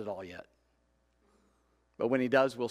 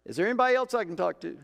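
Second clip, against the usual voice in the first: quick nervous joke; 7 semitones higher, much faster than usual. Retold or imitated. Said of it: "And the guy said".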